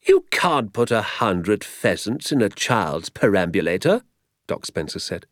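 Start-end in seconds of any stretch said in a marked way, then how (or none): 0.1-4.0 slow, emphatic objection; mild incredulity. Acted. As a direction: object slowly, with a touch of disbelief. Doctor objects in disbelief.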